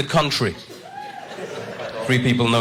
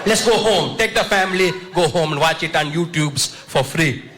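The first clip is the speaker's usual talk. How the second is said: put-on shrill high Indian-accented yell; Indian heckler; 4 semitones higher than usual. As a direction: scream it like an angry Indian uncle. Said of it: "Indian crowds heckle".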